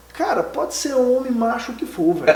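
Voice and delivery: half laughing, half moved; laughing while telling. Real, not acted. To the host, laughing as he recalls the result.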